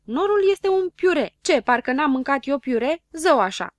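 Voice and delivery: rally the others against the know-all; indignant protest. A narrator's reading. Habar n-am discredits Știe Tot to his friends, indignant.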